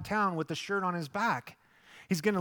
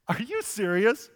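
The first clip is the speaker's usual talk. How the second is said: slow, scornful rising question; mocking disbelief; 5 semitones higher, 5 dB louder than usual. Sons-in-law scoffing at Lot, mocking disbelief. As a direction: scoff at him, louder and higher.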